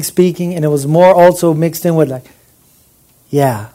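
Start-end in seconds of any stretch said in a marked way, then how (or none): 3.3-3.7 low, relaxed acted sigh of approval; refreshed contentment. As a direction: breathe out a satisfied, low word. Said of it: "it means to breathe out".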